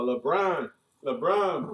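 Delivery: hammed-up French accent; foreign accent in French. Joking fake French banter.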